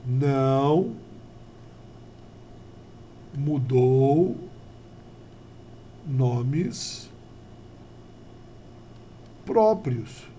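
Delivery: each word set apart by long pauses; slow dictation. Shown as a demonstration. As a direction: dictate it slowly for the notes. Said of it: "Só pra poder lembrar isso daqui". (ditado lento, cada palavra separada por pausas)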